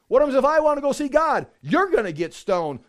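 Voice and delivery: ordinary delivery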